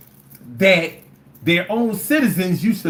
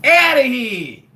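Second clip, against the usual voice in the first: a gleeful dictator laying down the law; Castro impression. Castro to the world, mock decree. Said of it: "Castro was like".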